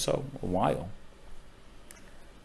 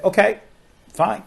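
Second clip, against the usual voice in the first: lightly voiced kids, pitched up; a touch of eager children agreeing; high kid voice; 11 semitones higher, 6 dB louder than usual.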